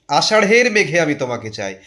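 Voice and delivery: আষাঢ়ের as "ashaṛh-er" within the sung-lyric phrase, spoken; aspirated ঢ়. Shown as a demonstration. Teacher models the whole phrase, আষাঢ়ের with aspirated ṛh. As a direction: keep the H after the flap in আষাঢ়ের. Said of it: "উচ্চারণ".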